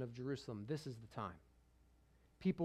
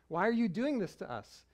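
a light plea in the voice of a worried mother; mother half pleading with her son; mild pleading mom; 4 semitones higher than usual. Retold or imitated. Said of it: "mom mode turns on".

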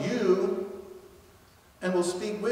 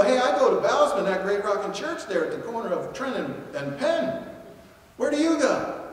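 upbeat invitation; 3 semitones higher, 3 dB louder than usual. Pretend.

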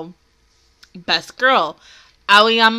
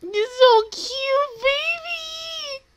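gushing; 12 semitones higher, much slower than usual. Real, not acted. Gushing over anime character.

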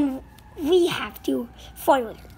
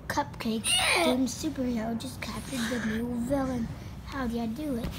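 squeaky bickering rat chorus; 6 semitones lower, 7 dB quieter than usual. Acted. Low sneering rat voices.

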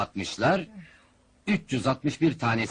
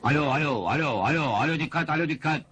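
announcer's mic check. Acted. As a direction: test the mic and call for attention. Testing the microphone for attention.

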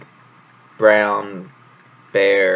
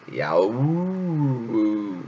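mock bellow. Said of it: "gave out a tremendous bellow".

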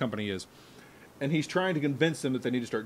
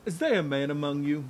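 put-on Louisiana accent. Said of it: "He's trying to do a Louisiana accent".

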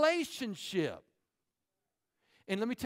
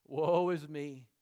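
mock self-pity; 6 semitones lower, slower than usual. Mock woe-is-me moment.

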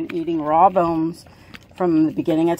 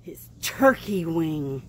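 hushed narrator aside; whisper; slower than usual. Real, not acted. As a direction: lean in and whisper it.

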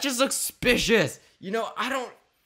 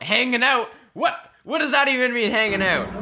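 incredulous; 3 semitones higher, 5 dB louder than usual. Real, not acted. Incredulous repeat of clip.

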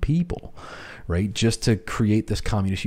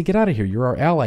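startled brush-off; 3 semitones higher, faster than usual. Retold or imitated. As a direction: toss it off as a stunned GI would. GIs shooing away surrendering Soviets.

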